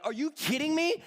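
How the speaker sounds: high, incredulous mock outburst; angry disbelief. Imitating the audience angry at the betrayal, outraged disbelief. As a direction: imitate an outraged moviegoer, pitch climbing high. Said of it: "getting angry. They're like".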